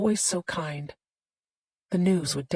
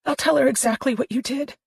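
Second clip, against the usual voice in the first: threatening; 8 semitones higher, 4 dB louder than usual. A narrator's reading. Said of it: "she threatened".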